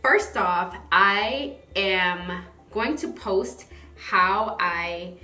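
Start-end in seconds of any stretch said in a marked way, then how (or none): none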